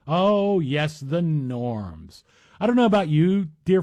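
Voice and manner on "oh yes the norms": sarcastic drawn-out mock. Real, not acted. Mocking the judges' "precious norms.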